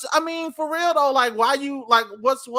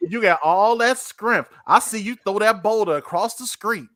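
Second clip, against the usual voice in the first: seductive coaxing; 6 dB louder than usual. Retold or imitated. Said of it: "She was like".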